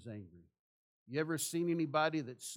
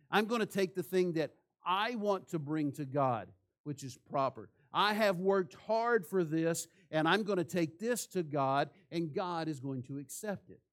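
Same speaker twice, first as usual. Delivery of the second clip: louder, emphatic mock declaration; self-assured insistence; 3 semitones higher, 5 dB louder than usual. Cain insisting God will accept his offering, self-assured.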